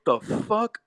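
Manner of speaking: high mock outraged whine; indignant woman. Sister-in-law after Holyfield is knocked out, high outraged whine. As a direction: whine it like a sore loser. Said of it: "she just said".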